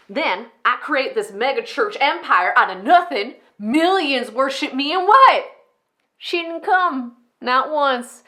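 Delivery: high, loud narcissistic rant; unhinged rage. Acted. Enid rages that Mama never came, furious. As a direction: build a furious grievance, spitting out each insult. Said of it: "how insane they can sound at times".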